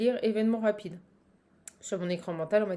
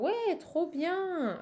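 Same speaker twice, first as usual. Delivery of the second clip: delighted; 7 semitones higher, 3 dB quieter, much slower than usual. Retold or imitated. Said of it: "vous allez faire".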